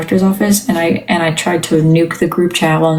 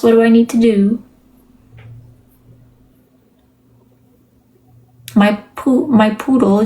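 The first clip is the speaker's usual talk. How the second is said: higher, eager employee asking the boss; timid new employee; 3 semitones higher than usual. Acted. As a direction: ask the new boss nervously, pitched up. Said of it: "role play to, like, help you".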